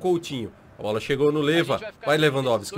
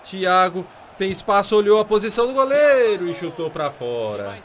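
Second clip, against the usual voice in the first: ordinary talk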